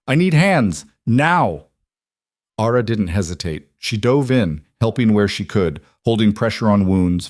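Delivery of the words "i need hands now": high, pressing demand; urgent command. A narrator's reading. Healer needs help with the wounded, urgent command. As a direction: order help at once, voice pitched up.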